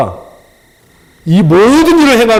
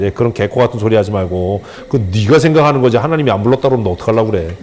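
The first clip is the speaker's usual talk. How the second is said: laughing mock rebuke; 6 semitones lower than usual. Retold rebuke of trainee, laughing.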